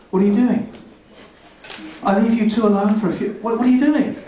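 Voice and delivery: a cat scolding its owners, lightly voiced; mock outrage from the pet; indignant cat. Cat catching its owners mid-sex, scolding them. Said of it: "That's how angry I am".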